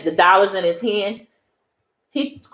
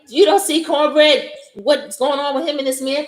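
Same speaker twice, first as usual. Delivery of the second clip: alarmed; 8 semitones higher than usual. Retold or imitated. Alarmed question in the retold scene.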